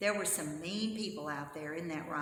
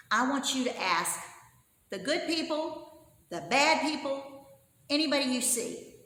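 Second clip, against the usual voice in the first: excited king; 3 semitones higher, 4 dB louder than usual. Acted. King sends servants out.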